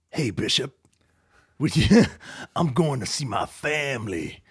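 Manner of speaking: lightly voiced sly villain. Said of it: "that's the only villain voice I know how to do".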